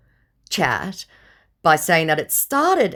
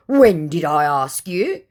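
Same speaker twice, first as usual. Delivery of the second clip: mildly indignant; 4 semitones higher, 6 dB louder than usual. Retold or imitated. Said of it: "Getting mildly indignant".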